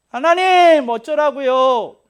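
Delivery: 훨씬 높고 크게 하나님께 울부짖듯; 어쩌라고요를 느리게 끌며 절규하듯; 울부짖음. Shown as a demonstration. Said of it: "좀 이렇게 울부짖어도 됩니다". (하나님께 매달려 느리게 부르짖는 절규)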